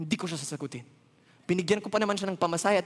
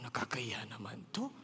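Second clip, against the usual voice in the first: hushed embarrassed whisper; 11 semitones lower, 14 dB quieter than usual. Retold or imitated. Storyteller whispering his embarrassment on the crowded plane. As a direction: whisper so nobody hears.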